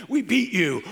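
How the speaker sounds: playful laughing brag sent to the group; laughing taunt. Retold or imitated. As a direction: gloat at the others while laughing. Taunting friends with photos.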